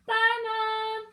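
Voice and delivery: put-on high, loud child voice full of plans; little bear girl skipping off, thrilled; excited little girl. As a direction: rattle off the fun ideas like a giddy kid. Lucy sets off on her search.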